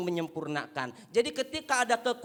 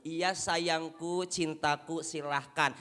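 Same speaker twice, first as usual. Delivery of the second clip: doting wife; 4 semitones lower, slower than usual. Acted. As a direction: drawl out the pet names lovingly. Wife sweetly agrees.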